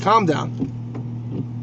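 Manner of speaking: whispered to himself. Real, not acted. Telling himself to calm down, whispered. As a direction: breathe it out under his breath. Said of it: "It's a Friday afternoon, Dean".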